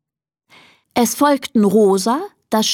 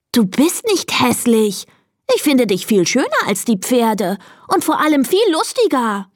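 higher, lively insistent friend; emphatic reassurance; 5 semitones higher than usual. Acted. Cat Moritz comforts the crying donkey, insistent and higher. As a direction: protest to cheer a friend up.

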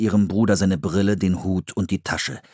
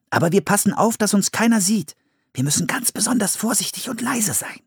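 put-on a cautious older brother laying down rules; Philipp's boy voice; 12 semitones higher than usual.

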